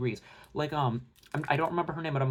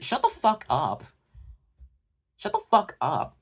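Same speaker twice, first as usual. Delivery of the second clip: exasperated outburst, high and loud; pissed off; 6 semitones higher, 4 dB louder, slower than usual. Real, not acted. Commentator cuts off the excuse-makers, angry shout. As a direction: drag out each word in real anger, slow and forceful. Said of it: "that shit pissed me off".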